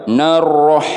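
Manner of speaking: Narroh with the na and ro run together wrongly; wrong separated na. Shown as a demonstration. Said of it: "Nggak boleh". (Narroh, bacaan salah)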